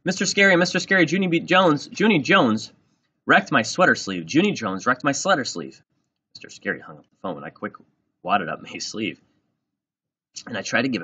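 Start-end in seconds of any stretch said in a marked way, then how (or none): 0.0-5.8 high, loud tattling holler; outraged kid's shout, very high. A narrator's reading. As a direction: holler for the teacher at the top of your lungs. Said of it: "she had hollered at the top of her lungs".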